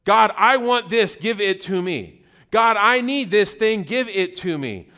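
slow, emphatic mock demand; acted-out insistent prayer. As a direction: lay down a selfish demand to God, word by word. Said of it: "we start prayers with".

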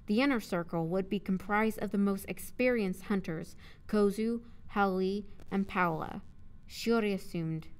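measured audiobook narrator; narrating prose, carefully enunciated; story narration. A narrator's reading. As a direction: read the story aloud clearly.

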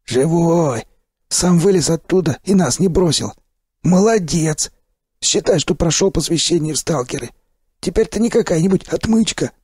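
high, cheery gruff stalker praise; hearty stalker. Acted. Sipliy cheers the revived narrator in a high, hearty voice. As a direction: clap him on the back with your voice.

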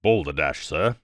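understated, indignant snort of contempt; angry exclamation. A narrator's reading. Expert scorning Poirot's magic lecture, angry. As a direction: dismiss it with irritation. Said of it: "he exclaimed angrily".

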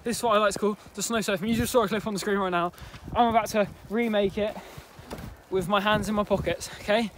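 distant voice; far off. Real, not acted. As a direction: sound far from the mic. Giving instructions from a distance.

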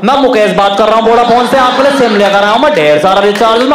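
lightly voiced salesman pitch; a mild sales caller patter; telemarketer call. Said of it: "अचानक से कहा". (हल्की सी telemarketer वाली आवाज़)

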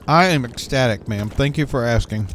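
talking while chewing; words around a bite of food; mouth full. Real, not acted. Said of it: "Sorry if I'm chewing in your ear".

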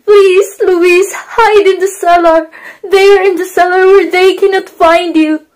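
pleading. Acted.

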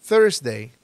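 Thursday opening on a th like Castilian Z; Spanish Z sound. Shown as a demonstration. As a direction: start Thursday with tongue-between-teeth th. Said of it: "con la Z". (Thursday con Z española, "zérsdei")

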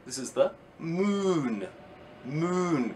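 "moon" with a long drawn "oo"; slow modelled word. Shown as a demonstration. Teacher modelling the long vowel for children. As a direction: stretch "moon" slowly for pupils. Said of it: "hear a oo sound".

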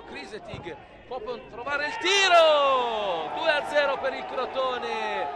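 excited goal call, voice rising; live play-by-play. Real, not acted.

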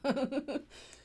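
light, high giggle; quick rippling laugh. Real, not acted. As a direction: break into a short bubbly giggle. Amused at smiling during meditation.

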